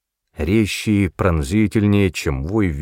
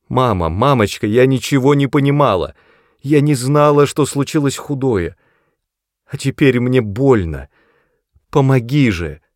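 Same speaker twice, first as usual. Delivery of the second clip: put-on high, loud, frantic girl's plea; desperate pleading; 5 semitones higher, 4 dB louder than usual. A narrator's reading. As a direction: beg through panic and pain. Frightened daughter begs mother.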